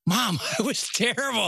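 retold teenage objection with a chuckle in it; mock protest. Son answering his mom's praise, laughing protest.

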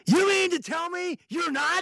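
high, slow mock-incredulous retort; pointed comeback. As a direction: throw the question right back at him. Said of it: "I go".

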